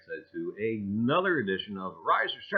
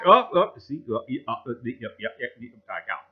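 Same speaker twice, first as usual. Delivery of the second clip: imitating bad cell service; 2 semitones lower, 6 dB louder, faster than usual. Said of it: "that was my imitation of how my cell service is".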